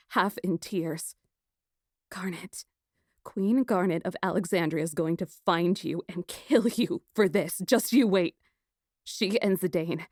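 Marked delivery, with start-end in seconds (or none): 2.1-10.1 threatening through anger; shaking anger. Acted. Princess threatening her captor, shaking with anger. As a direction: let the voice shake. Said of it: "My voice shook with anger".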